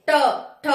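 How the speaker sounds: ट ठ ड ढ य with the tongue curled back, spaced apart; teacher modelling retroflex consonants ट ठ ड ढ य; retroflex sounds demo. Shown as a demonstration. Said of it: "पीछे वाले हिस्से से टच होगी मूर्धा से".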